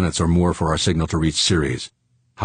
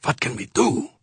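much higher, desperate question; desperate repeat; 10 semitones higher than usual. A narrator's reading. Pilot asking himself with antennas gone, desperate. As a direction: lift the pitch into helpless pleading. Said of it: "Fuchs asked himself".

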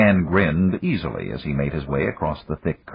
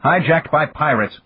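higher, clipped accusation with stress on Hijacked; snapped; 10 semitones higher, 4 dB louder than usual. A narrator's reading. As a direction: spit out Hijacked hard. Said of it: "the Russian snapped".

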